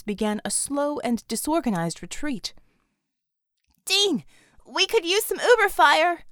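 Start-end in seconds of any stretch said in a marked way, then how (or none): 3.8-6.2 shouting over battle noise. Acted. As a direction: call it out loud and high. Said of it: "Bella shouted into her comm".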